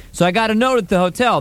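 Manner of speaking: ordinary delivery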